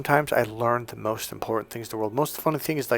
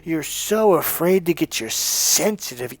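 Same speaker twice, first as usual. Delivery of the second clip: slow, drawn-out emphatic scolding; scolding rant; 4 semitones higher, slower than usual. Real, not acted. Coach calling out listeners who live by excuses, scolding. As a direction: stretch the key words to drive it home.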